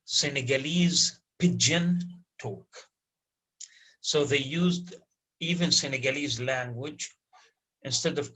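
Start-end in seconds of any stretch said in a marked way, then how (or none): 0.0-2.0 whisper. Real, not acted. Whispered aside.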